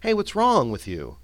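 concerned, caring ask, stress on wrong; compassionate. Shown as a demonstration. Friend checking on someone dejected, concerned and caring. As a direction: ask gently, like a worried friend. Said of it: "generally being compassionate about your situation".

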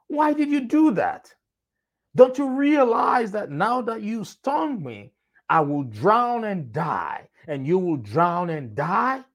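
a frog begging to know why as it sinks; panicked frog. Acted. Frog confronts the scorpion, panicking.

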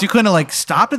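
high voice, blaming the player; lightly voiced Jay demanding why he didn't stop the fire; accusing Jay. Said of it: "He goes".

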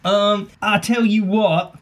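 put-on slow, slipping rural accent on "I tell you what"; wobbly rural accent. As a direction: let a country accent slide in and out. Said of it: "I don't know what's going on with my accent".

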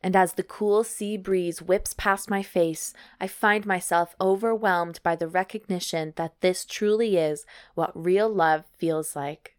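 measured, evenly paced read-aloud; story narration. Acted. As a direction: narrate it like an audiobook. Reads erotic story aloud.

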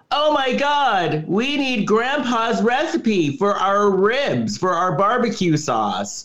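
slow, high, hammed-up "oh my God" panic; mock dramatic panic. Podcaster mocking the movie's dilemma, hammed-up panic. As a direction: overplay the characters' fake crisis.

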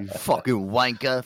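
lightly acted bar brawler, drawn out; mock brawling insult, stretched slow; Caps. Co-host imagines Caps roughing people up at the bar, mock aggression. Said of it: "I can see Caps, like, beating the shit out".

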